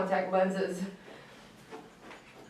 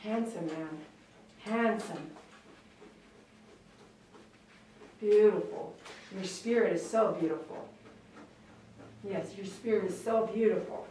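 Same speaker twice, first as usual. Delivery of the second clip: soft, low cooing to a dog; softly adoring; tender praise; 3 semitones lower, 5 dB quieter than usual. Real, not acted. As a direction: murmur loving compliments, gently.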